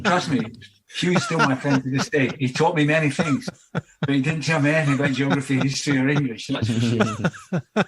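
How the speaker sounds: chuckling through the words; laughing. Real, not acted. Telling the host about his old teacher, laughing. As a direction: laugh your way through the memory.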